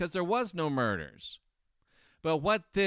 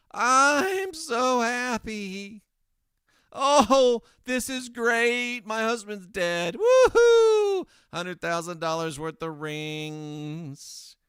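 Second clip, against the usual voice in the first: very high, loud, slow mock glee with a whoop; hammed-up gloating widow; 8 semitones higher, 7 dB louder, slower than usual. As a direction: ham up a terrible actress celebrating. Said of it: "She's a terrible actress".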